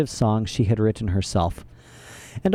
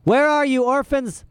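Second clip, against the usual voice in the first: high scratchy call for the orphans; scratchy shout; 13 semitones higher than usual. A narrator's reading. Olaf calling the orphans as he flings the door open, scratchy shout. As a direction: bellow it out in a rasp. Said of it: "called out in a scratchy voice".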